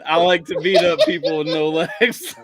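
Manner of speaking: flat monotone deadpan quote. Retold or imitated. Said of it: "I said it in such a monotone voice".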